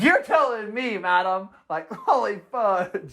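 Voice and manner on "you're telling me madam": high mock you're telling me; teasing aside to a parent; sarcastic reply. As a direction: roll your eyes at the parent. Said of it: "And I'm like".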